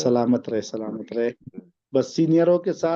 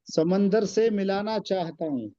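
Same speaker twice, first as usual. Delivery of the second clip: poem recitation. Acted. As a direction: recite the couplet with weight. Recites ghazal couplets.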